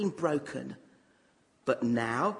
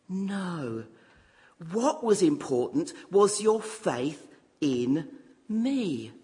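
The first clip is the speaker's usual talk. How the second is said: gentle Jesus; slower than usual. Acted. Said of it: "very gently he says".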